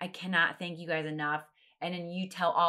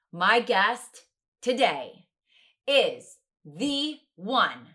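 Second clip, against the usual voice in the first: slow, building, much louder and higher; announcer intro; 4 semitones higher, 12 dB louder, much slower than usual. Acted. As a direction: hype up the big guest reveal.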